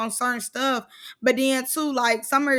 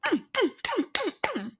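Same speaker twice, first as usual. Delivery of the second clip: rhythmic mock punch hums; 8 semitones higher, 5 dB quieter than usual. Imitating punches landing.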